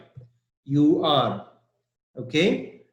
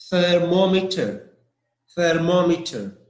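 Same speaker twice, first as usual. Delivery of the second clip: "thermometer" stressed on the second syllable, MOM. Shown as a demonstration. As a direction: hit MOM in "thermometer", then fall away. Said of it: "The stress is M O M".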